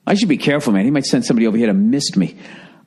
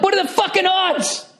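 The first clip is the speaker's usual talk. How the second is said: high, squeaky disbelief; incredulous squeal. Retold or imitated. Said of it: "I'm like".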